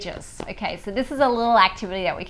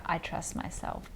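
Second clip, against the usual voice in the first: whispered affirmation; 5 semitones lower, 15 dB quieter than usual. Shown as a demonstration.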